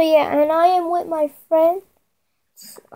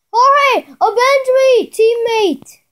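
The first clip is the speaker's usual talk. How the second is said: high, hammy call for revenge; overacted death scene; 6 semitones higher, slower than usual. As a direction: ham up the dying cry. Dying again, hammy.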